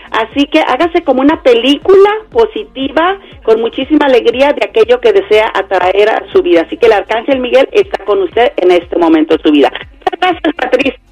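choppy phone line breaking up; call dropping out. Real, not acted. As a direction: voice cutting in and out on the phone. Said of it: "Se está cortando muy feo".

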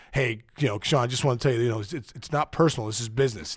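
a hint of a smooth front-office man. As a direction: play the calm executive. Rival executive voiced in story.

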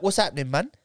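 lightly put-on London Jamaican voice; casual challenge in Jamaican English; imitated Jamaican-London geezer; Jamaican English accent. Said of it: "that really cool accent".

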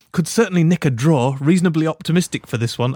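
lightly hammed-up regal English; posh regal voice. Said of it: "I sound like Patrick Bamford".

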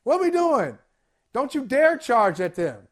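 loud coach giving orders; half-acted sideline scolding; Michael Malone. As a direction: call it out like an indignant coach. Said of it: "Michael Malone is like".

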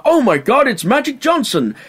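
high, excited Luigi exclamation; Luigi greeting. Retold or imitated. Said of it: "Luigi opens the window and he's like".

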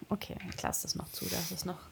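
leise vor sich hin geflüstert; flüsternd. Real, not acted. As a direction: schnell und tonlos murmeln. GM murmurs a ruling to himself. (halblaut zu sich selbst flüstern)

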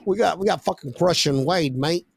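lightly put-on British lad; bad British accent. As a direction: have a rough go at a British accent. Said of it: "British accent".

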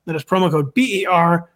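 quick sponsor read; hard sell ad. Acted. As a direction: rattle off the ad copy. Host reads sponsor ad.

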